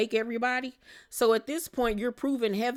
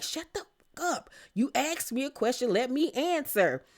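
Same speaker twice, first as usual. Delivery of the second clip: upset snap; 3 semitones higher, 4 dB quieter than usual. Retold or imitated. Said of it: "Whitney gets upset and was like".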